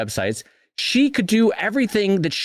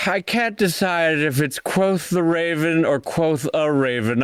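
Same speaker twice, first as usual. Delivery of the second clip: slow mock Virginia drawl as Poe; a lightly hammed Southern poet; 3 semitones higher, slower than usual. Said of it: "Virginia with, like, a drawl".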